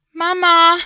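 loud, high frightened shout. A narrator's reading. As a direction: yell for mum at full voice. Child calling parents in the dark. (lauter, hoher Angstschrei)

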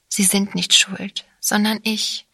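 ordinary delivery

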